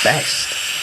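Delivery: whisper. Real, not acted. Whispered emphasis.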